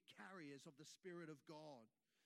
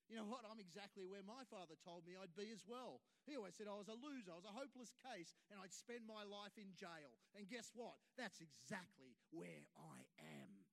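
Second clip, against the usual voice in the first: disdain. Retold or imitated. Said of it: "he said with disdain in his voice".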